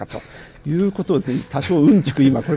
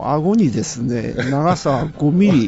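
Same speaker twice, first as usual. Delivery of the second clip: slow mock play-by-play, a touch louder; live commentary; 4 dB louder, slower than usual. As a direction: announce it like a sports commentator. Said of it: "ちょっと実況風景風に". (実況アナウンサー風に、ゆっくり)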